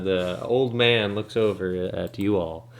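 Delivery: ordinary talk, nothing marked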